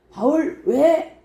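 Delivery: drawn-out high question; slow question. Acted. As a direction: stretch it out slowly. Centurion asks Paul slowly.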